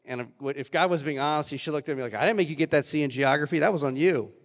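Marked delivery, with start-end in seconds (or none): 2.1-4.3 God's blunt rebuke. Pretend. God voiced as blunt reply.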